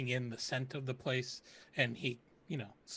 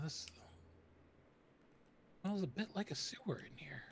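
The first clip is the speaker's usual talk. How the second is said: secretive whisper about the stink; 4 semitones higher, 6 dB quieter than usual. Acted. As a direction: whisper it so the owner can't hear. Player whispers about the smell.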